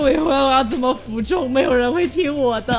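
mock sobbing. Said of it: "他就爆哭说".

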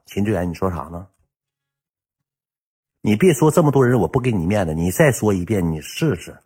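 low, restrained threat, acting the girlfriend; retold menacing warning. (压低声音转述女友的威胁)

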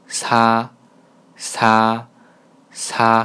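"擦" as a light Korean sa; light airy consonant. Shown as a demonstration. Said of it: "很轻". (“擦”读得很轻，带气流，像韩语사)

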